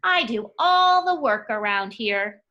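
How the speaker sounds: little mouse complaining, mildly grumpy; grumpy complaint. Acted. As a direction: grumble it like the overworked mouse. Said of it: "He says".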